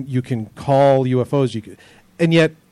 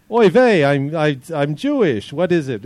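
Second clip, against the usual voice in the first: put-on a touch of 1950s Catskills Jewish comic accent; lightly played Jewish Catskills comic accent; 3 semitones higher, 3 dB louder than usual. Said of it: "that's my Stan Friedman Catskills, um, Jewish accent".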